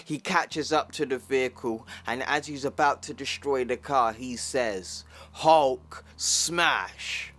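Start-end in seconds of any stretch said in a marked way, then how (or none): 5.3-7.3 loud, higher Hulk battle cry; Hulk roar. Acted. Hulk yells as he wrecks the car, loud roar. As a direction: bellow it as you smash.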